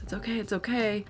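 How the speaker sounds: calm the parents gently; reassuring. Retold or imitated. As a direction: nurse soothing worried parents.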